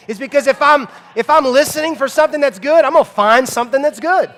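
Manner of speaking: high, loud preaching drive. Real, not acted. Preacher to his congregation, high and loud. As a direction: hammer the point home. Preacher driving point home.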